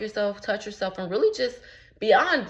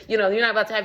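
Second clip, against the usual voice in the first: laughing; 3 semitones higher, 5 dB louder, much faster than usual. Real, not acted. Laughing at freeloaders.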